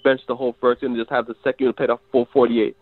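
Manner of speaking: stuffy nose from a cold; sick nasal voice. Real, not acted. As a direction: talk through a blocked nose. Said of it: "you hear the nasally voice".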